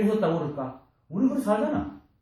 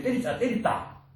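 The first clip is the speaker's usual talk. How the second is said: slow spelled-out words; 8 semitones higher, slower than usual. Shown as a demonstration. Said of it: "말로는 전할 수 있지".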